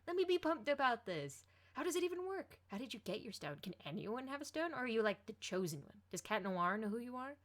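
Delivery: bursting with excitement, can't hold back; pumped. A narrator's reading. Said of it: "shaking her shoulders in excitement".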